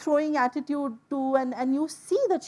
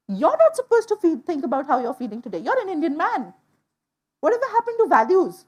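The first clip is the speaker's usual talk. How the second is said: indignant; 2 semitones higher, 5 dB louder than usual. Retold or imitated. Indignant retort to the healer.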